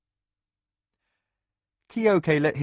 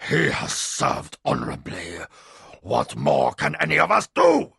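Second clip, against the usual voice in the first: distressed; 3 semitones higher, 4 dB louder than usual. A narrator's reading. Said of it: "unaccustomedly distressed".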